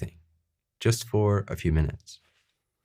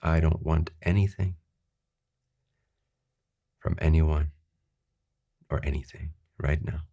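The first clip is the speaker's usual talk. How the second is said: unhurried meditative affirmation; sincere affirmation. Shown as a demonstration. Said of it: "repeat a few times, trying to really feel".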